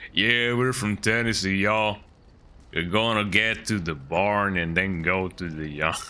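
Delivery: mock country Tennessee drawl; country Tennessee accent. Streamer imitating Tennessee people, mock country accent. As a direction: put on a slow, hokey Tennessee accent. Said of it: "Tennessee people usually sound country".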